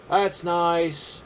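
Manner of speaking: mock-pleased sarcasm; sarcastic. Shown as a demonstration. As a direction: pretend to admire it. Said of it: "Yeah, I'm being sarcastic".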